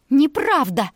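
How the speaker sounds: shrill shriek of denial. A narrator's reading. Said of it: "взвизгнула Аделла". (взвизгнула дочь, отрицая: пронзительный визг)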